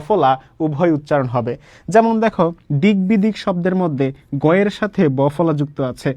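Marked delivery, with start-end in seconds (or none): 2.8-3.3 দিক বিদিক run together with a g before the b; both গ and ব sounded. Shown as a demonstration. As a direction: say দিক বিদিক as "dig-bidik". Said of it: "গয়ের উচ্চারণও হবে".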